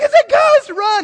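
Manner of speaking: very high, loud, frightened, panicked yelp. Picturing being in the boat with the frightened disciples, acting out panic. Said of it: "they get into this panic".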